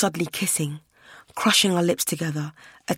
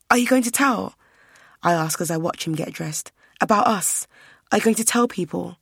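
anxious. Acted. Anxious questions as he dresses.

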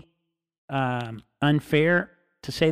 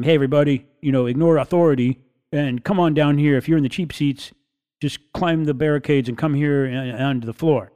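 rowdy frontman call; 5 dB louder than usual. Retold or imitated. Punk singer calling to crowd.

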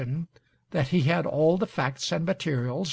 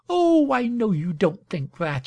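higher-pitched, lightly affectionate protest; fond cry; 5 semitones higher, 4 dB louder than usual. A narrator's reading. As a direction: cry it fondly, starting high. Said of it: "she cried fondly".

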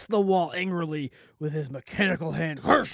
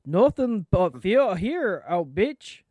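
put-on Nova Scotia accent; slower than usual. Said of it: "Nova Scotia".

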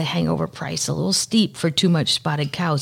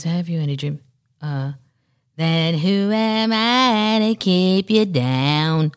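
lightly voiced singer, dreamy and very slow; an impression of a singer; slower than usual. Quoting a singer's roller-skate video in a light, slow voice. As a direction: stretch the lyric out slowly like a dreamy rock singer. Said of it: "That's my impression".

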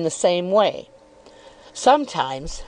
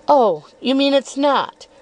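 lightly raised, coyly probing voice; insinuating Miss Dartle; 5 semitones higher than usual. Acted. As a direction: feign innocence while needling.

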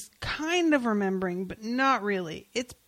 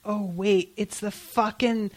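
exasperated; 5 dB louder than usual. Retold or imitated. Retold exasperated reaction reading.

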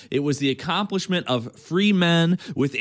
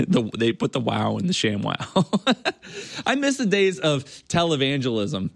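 laughing. Real, not acted. Host laughs at own joke.

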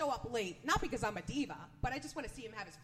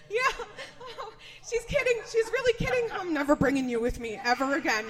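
exasperated mom yelling, louder and higher; mock yelling at kids; 3 semitones higher, 11 dB louder than usual. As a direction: scold the kids loud, at the end of your rope. Yelling at daughters in restaurant.

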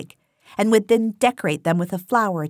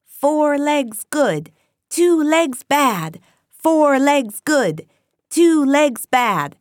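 higher, louder, slow bleating chant; sheep bleating; 7 semitones higher, 5 dB louder, much slower than usual. A narrator's reading. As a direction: drone it like a flock of bleating sheep. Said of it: "they would all start bleating".

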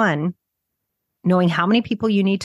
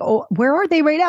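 mock anxious client; 9 semitones higher than usual. Client panicking about finding buyers.

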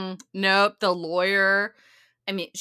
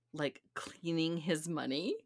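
mock whisper; 3 semitones lower, 8 dB quieter than usual. Retelling a confided agreement.

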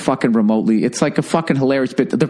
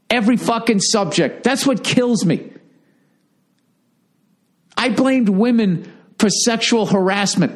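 incredulous rant; 8 semitones higher than usual. Real, not acted. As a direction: stretch it out in outraged disbelief. Incredulous rant about hypocrisy.

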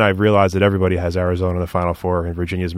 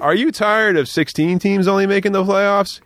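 higher, slower TV pitchman; infomercial pitch; 9 semitones higher, slower than usual. Pretend. Host pitches a playoff system to viewers, hammed-up pitchman. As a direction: sell it like a cheesy ad. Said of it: "I feel like I'm on, like, an infomercial".

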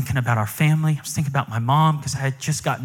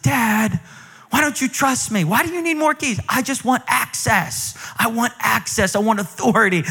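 higher, whiny pleading son; whiny plea; 5 semitones higher than usual. Retold or imitated. Son pleading with his dad for more keys, high and whiny. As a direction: whine for one more key.

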